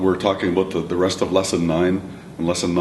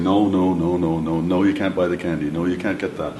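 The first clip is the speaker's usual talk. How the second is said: repeated refusal. Acted. Parent refusing candy over and over, patiently repetitive. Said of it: "You keep saying".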